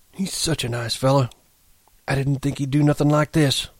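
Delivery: put-on high, plaintive old ranch hand; lamenting old man. A narrator's reading. Old hand grieves over a nice fella, high and plaintive. Candy laments about Lenny.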